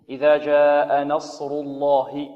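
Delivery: إذا جاء نصر الله recited slowly with a heavy الله; slow recitation. Shown as a demonstration. Teacher reciting the verse for the student. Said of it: "لفظ الجلالة هنا".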